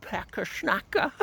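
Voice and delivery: very high, loud, mocking schoolboy voice; Jason's speech impression. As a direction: squawk it way up high, stretching the words. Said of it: "he'd talk like this".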